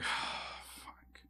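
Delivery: soft unvoiced whisper of a curse. Student hears the band director left, whispers a curse. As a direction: breathe the word out in a defeated whisper.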